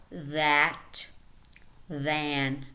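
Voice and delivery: isolated words, carefully articulated with long pauses; listen-and-repeat word reading. Shown as a demonstration. Teacher reading a word list for learners, careful and separated. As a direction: read each word as a model to copy. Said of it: "let's read the words".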